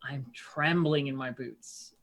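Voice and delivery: drawn-out sarcastic taunt; mock being impressed, savouring each phrase; sneering mock intimidation; vicious mockery. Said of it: "vicious mockery him".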